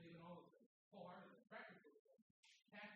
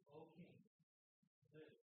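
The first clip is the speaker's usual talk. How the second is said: respectful greeting; 4 semitones lower, 7 dB quieter than usual. Retold or imitated. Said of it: "He said".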